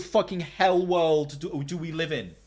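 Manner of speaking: slow, loud, high outraged cry; outraged rant. Real, not acted. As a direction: wail it out in disbelief. Ranting outrage about streaming.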